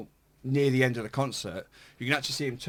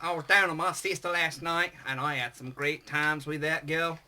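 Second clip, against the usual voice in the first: put-on hillbilly accent; 3 semitones higher than usual. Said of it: "hillbilly redneck accent".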